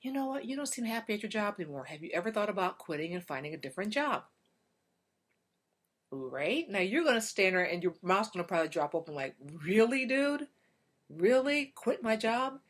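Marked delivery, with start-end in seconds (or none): 0.0-4.2 upbeat problem-solving husband. Pretend. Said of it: "So he's gonna say to you". 9.4-12.6 louder, higher disbelief; can't believe what she just heard; stunned wife throwing his advice back at him; incredulous. Pretend.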